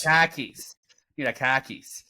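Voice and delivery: khakis said kah-kiz, Boston style; Boston accent. Retold or imitated. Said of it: "in a Boston accent".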